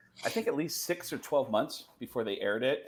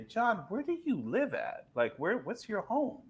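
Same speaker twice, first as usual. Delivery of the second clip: a singer; 9 semitones higher than usual. Retold or imitated. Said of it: "the singer say".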